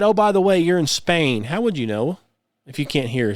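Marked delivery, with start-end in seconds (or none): 0.0-1.4 light, raised mock announcement to a deafblind traveller; voiced lightly in a chirpy tone; mock guide voice. Hosts mock a deafblind traveller's guide, lightly voiced. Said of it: "If, if somebody said".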